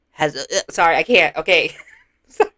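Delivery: fighting back a gag while talking; nearly gagging. Real, not acted. Trying to describe a dirty tongue, nearly gagging. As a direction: break off queasy, apologizing. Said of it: "say it without gagging".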